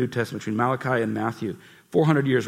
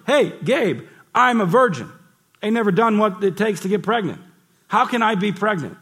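Mary protesting; 8 semitones higher, 4 dB louder than usual. Acted. Mary voiced protesting to angel.

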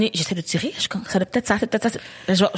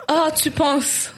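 very slow, higher, stretched sarcastic echo; drawn-out mock disbelief; 5 semitones higher, much slower than usual. Repeating his words back, slow stunned sarcasm. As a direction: drag it out, stunned and doubtful. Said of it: "il me dit".

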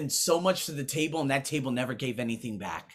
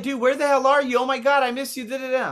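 excited friend voice; 10 semitones higher, 5 dB louder, faster than usual. Retold or imitated. Voicing Joy's excited message.

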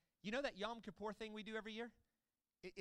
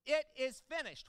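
loud proclamation; 4 semitones higher, 9 dB louder than usual. Retold or imitated. Priest calls to the people outside in a loud voice. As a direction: ring it out loud and high. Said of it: "proclaim in a loud voice".

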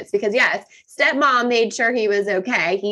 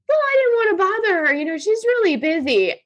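much higher, sheepish excuse; mimicking stepson; 11 semitones higher than usual. Stepson excusing himself to his father, high and sheepish. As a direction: make it a meek, caught-out kid.

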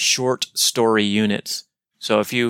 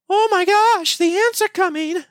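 squeaky, much higher voice in a fluster; panicky government official; 3 dB louder than usual. Acted. Official warning Lennigan the ants are coming, high panicked voice. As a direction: shriek the warning like a frightened official. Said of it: "That's what the government official tells".

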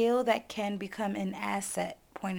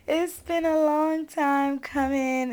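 high, bright burst of real excitement; excited; 6 semitones higher, 4 dB louder than usual. Real, not acted. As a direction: gush about being back. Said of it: "I am so excited".

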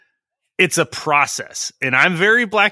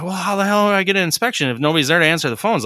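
exasperated quote; 4 semitones higher, faster than usual. Retold or imitated. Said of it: "And I'm like".

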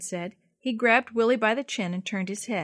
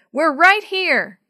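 higher, louder, slow shout; calling out; 8 semitones higher, 11 dB louder, much slower than usual. A narrator's reading. Boy guiding rescuers to the car, shouting. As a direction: draw it out so they find you.

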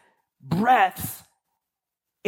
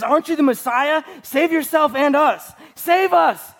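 raised, pleading voice, rising on the last save us; pleading criminal; 4 semitones higher, slower than usual. Retold or imitated. Criminal on the cross pleading with Jesus, raised and urgent. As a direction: beg him to save you, voice climbing. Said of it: "He's pleading to save us".

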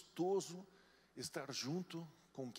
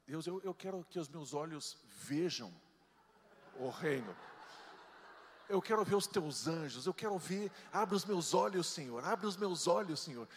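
louder, pleading "abre os meus olhos"; mock earnest prayer; fervent prayer; 6 dB louder than usual. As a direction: cry out to God for vision. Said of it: "eu falava assim".

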